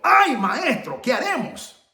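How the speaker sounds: high-pitched mock cry of dismay; imitated alarmed cry. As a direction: cry out like a panicked servant. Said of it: "voló el grito al cielo y dijo".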